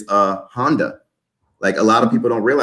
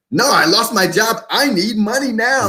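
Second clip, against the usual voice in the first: much higher, pleading voice of a worried woman; imitating the sister; 10 semitones higher than usual. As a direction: plead for money like the panicked sister. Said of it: "She's like".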